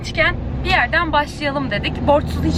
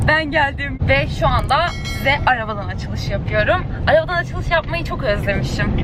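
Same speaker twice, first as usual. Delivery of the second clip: talking while the car shakes; on a bumpy road. Real, not acted. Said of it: "çok sallanıyorum".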